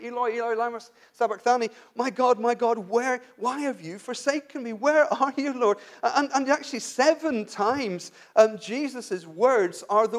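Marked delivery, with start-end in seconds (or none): 0.0-5.8 a raised, pleading cry to God; mild mock cry of a forsaken man. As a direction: lift the voice in a half-acted anguished cry. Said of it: "He cried out".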